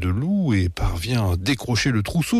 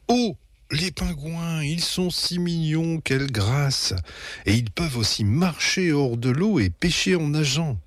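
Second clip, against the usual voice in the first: gushing mother; 7 semitones higher than usual. A narrator's reading. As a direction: coo over adorable animals. Mother gushes over penguins. (maman qui s'extasie, voix haut perchée)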